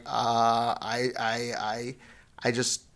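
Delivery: lightly voiced stammering excuse, jumping up on boom; sheepish Aaron. Aaron caught out by Moses, a hint of nervous stammering. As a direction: stumble through a feeble alibi.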